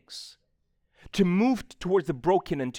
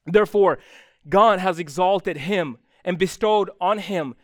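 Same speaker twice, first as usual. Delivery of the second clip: louder, higher, proclaiming every phrase; scripture preaching; 4 semitones higher, 6 dB louder than usual. Acted. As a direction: thunder out the verse to the congregation. Reads scripture at full force.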